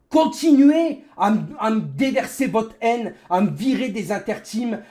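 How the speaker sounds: loud bitter rant; sarcastic angry rant; raging gamer. Real, not acted. Ranting at viewers.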